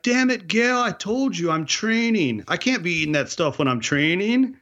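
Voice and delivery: very high put-on protest; exasperated guide impression. Guide refuses cook's pie, high mock-exasperated voice. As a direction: imitate an indignant trainee refusing dessert.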